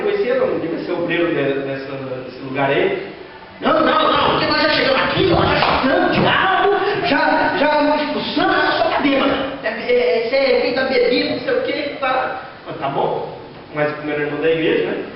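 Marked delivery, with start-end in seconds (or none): 3.6-12.4 raised, insistent protest, partly shouted; a church worker brushing off the pastor, voice pushed up. Retold or imitated. Church worker tells the pastor she's only drunk, insistent and raised.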